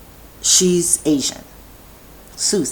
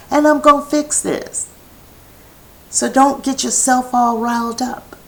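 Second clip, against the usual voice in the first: reassuring; 7 semitones higher than usual. Retold or imitated. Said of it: "And I said".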